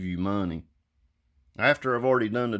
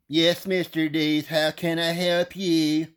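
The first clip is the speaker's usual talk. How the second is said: mock polite agent; 6 semitones higher, slower than usual. Insurance agent voiced on phone.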